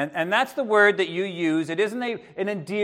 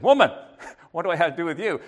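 curt retort; 3 semitones higher, 4 dB louder, much faster than usual. Pretend. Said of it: "that could go very wrong".

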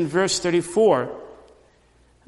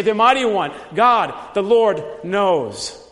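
louder, slow, rising confession; emphatic proclamation; 3 semitones higher, 4 dB louder than usual. Shown as a demonstration. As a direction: proclaim each name of God with weight. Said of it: "this confession could say".

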